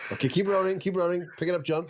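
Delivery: high-pitched floor director; director calling out. Acted. Director keeping the camera rolling, high urgent call. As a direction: call instructions out high to the crew. Plays director interrupting take.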